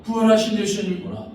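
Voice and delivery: Mary's joyful confession. Acted. Mary confesses the risen Jesus, joyful exclaiming. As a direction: proclaim it with bright wonder. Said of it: "마리아가 고백하는 겁니다".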